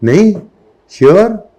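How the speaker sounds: high, sharp disbelieving questions; can't believe the answer; teacher doubting a student's reply, surprised. Real, not acted.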